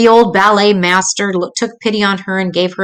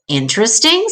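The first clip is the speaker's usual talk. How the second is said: puzzled; 2 semitones higher than usual. Acted. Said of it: "in a puzzled voice".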